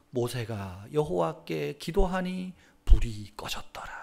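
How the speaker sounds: slow hushed scripture reading; whisper. Acted. Preacher reading scripture to the congregation in a whisper. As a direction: read the verse softly and slowly.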